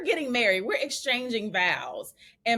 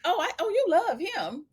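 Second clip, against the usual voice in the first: louder, higher, laughing through dad's words; 8 semitones higher, 3 dB louder than usual. Retold or imitated. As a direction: laugh while teasing as dad. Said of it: "he was like".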